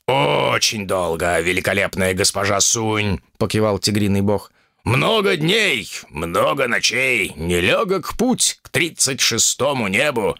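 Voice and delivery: lightly voiced wise tiger. Tiger slow.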